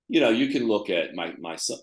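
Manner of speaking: speaking with hiccups; words broken by hiccups. Real, not acted. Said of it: "excuse me, I have the hiccups".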